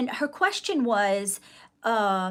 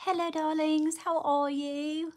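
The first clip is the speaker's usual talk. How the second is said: breathy vintage purr; 6 semitones higher than usual. Acted. Greeting livestream viewers, put-on voice.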